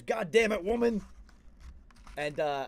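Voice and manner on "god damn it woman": high, loud imitation of a fed-up husband; retold exasperated yell. Husband finally giving in to nagging, exasperated mock yell. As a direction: snap loudly as the worn-down husband. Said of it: "he just goes".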